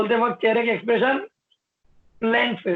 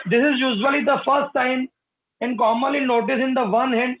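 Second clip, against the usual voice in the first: slow, spaced-out reading; slow dictation; 2 semitones higher, much slower than usual. Shown as a demonstration. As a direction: dictate each word for notes. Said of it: "dictating notes".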